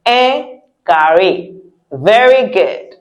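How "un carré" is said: "Un carré" slowly, r as in carrying; easy English R. Shown as a demonstration. Teacher repeating for learners, slow English-r "carré". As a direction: say "carré" without any throat sound. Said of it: "as if you're saying carrying something".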